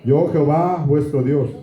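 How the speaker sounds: slow, solemn Bible reading; scripture reading. Acted. Pastor reads Leviticus to the congregation, slow and solemn. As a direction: lay down each law slowly and gravely.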